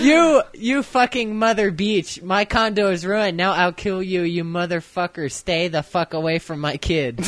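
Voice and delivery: reading angry caller. Retold or imitated. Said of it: "A hard-ass nigga has a comment".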